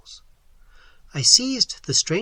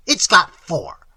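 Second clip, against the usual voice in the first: slow, louder put-on voice; retorting; 3 semitones higher, 8 dB louder, slower than usual. A narrator's reading. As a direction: lecture him slowly and loudly. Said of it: "she retorted".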